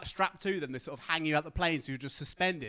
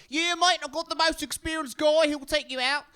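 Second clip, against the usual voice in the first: much higher, louder put-on voice; mock Aussie instructor; 10 semitones higher, 6 dB louder than usual. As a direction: reassure him with bravado. Instructor promises experienced guy.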